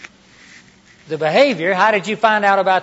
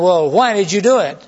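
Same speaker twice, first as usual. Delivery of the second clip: louder, stern frowning why; frowning question; 6 dB louder than usual. Shown as a demonstration. Preacher shows the wrong way, a frowning stern question. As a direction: ask with a scowl in the voice. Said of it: "Not this frown".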